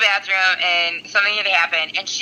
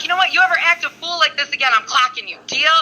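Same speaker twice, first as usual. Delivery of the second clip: mock threat; 6 semitones higher than usual. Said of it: "And I'm like".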